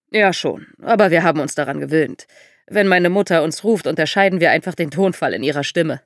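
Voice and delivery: lightly voiced American visitor; American accent. A narrator's reading. Visitor explains his family name to the daughter, light American accent. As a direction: chat with a hint of American accent. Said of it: "Er sprach mit amerikanischem Akzent".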